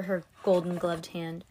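plain reading voice

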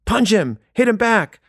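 high-pitched mock crowd yell; egging-on kids. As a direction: imitate kids in a circle urging on a fight. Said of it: "fifty kids in a circle, and they're going, like".

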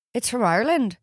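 put-on Irish accent. Answering a friend in a playful Irish accent. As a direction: say it with an Irish lilt. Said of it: "I love the Irish accent".

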